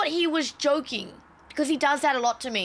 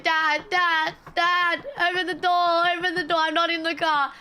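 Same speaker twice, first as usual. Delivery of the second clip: calling after dad; 5 semitones higher than usual. Retold or imitated. Retold yelling after father's car.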